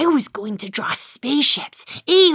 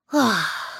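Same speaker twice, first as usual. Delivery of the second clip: disappointed sigh; 3 semitones lower, 3 dB quieter than usual. Acted. Whiskers thwarted by raincoat rule.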